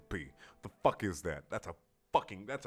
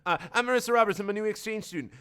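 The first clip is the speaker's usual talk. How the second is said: mock girly; 10 semitones higher, 4 dB louder, faster than usual. Marissa introduces herself.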